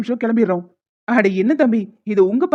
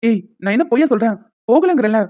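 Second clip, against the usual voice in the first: irritated insistence, slightly raised; mildly annoyed. Acted. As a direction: insist with a touch of temper. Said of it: "கோவப்படாதீங்க". (லேசான கோபத்துடன்)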